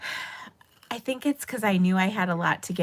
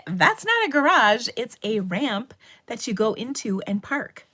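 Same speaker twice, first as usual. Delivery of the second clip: high, loud mock protest easing off; indignant rebuttal; 4 semitones higher, 3 dB louder than usual. Teacher arguing with students over a word, mock indignation. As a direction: argue back as if it were obvious. Acted argument back with students.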